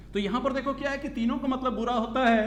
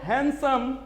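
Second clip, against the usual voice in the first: हैंडसम as "han-sum", D silent, slight break before सम; pause, silent D; 4 semitones higher, 4 dB louder, much slower than usual. Shown as a demonstration. Teacher showing a syllable break, हैंडसम split before सम with silent D. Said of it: "यहां पर आपका क्या है? विराम है".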